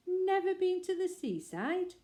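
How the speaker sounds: high, slow disbelieving cry; astonished. Acted. Family amazed the bear never saw the sea, astonished. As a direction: gasp it out in utter disbelief.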